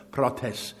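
"prautes" with the emphasis on its last syllable; stress on last syllable. Shown as a demonstration. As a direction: lean on the final syllable of "prautes". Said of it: "emphasis on the last syllable".

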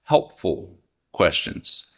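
helpful leaned on, slow and low; stress on helpful. Shown as a demonstration. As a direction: press helpful slowly. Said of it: "And I emphasize".

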